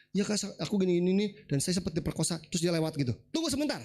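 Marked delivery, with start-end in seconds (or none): 0.1-2.4 imitating someone hurrying through a confession; rushed retelling. Woman hurrying her painful story to counselor, retold rushed. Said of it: "Dia cerita itu cepet". 3.3-3.8 sudden high-pitched interruption; cutting in. Retold or imitated. Counselor stops a woman rushing past her trauma, cutting in. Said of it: "saya cut".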